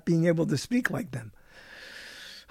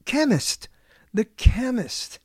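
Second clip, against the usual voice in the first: British chemist; 5 semitones higher, slower than usual. Shown as a demonstration. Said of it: "how do you say pharmacist in British".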